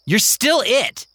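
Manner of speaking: high and slow, insisting; stubborn kid. Acted. Kingston insisting to Mary, high and slow. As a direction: drag it out stubbornly.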